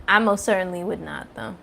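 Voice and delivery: talking while crunching hard candy. Real, not acted. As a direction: speak through a crunchy mouthful. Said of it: "hear me crunching on the Werther's Original".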